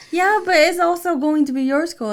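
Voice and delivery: put-on high, loud parent-to-child reply; retold mom correcting her child; insistent reassurance. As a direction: reason emphatically with a little kid. Mother retells reasoning with child.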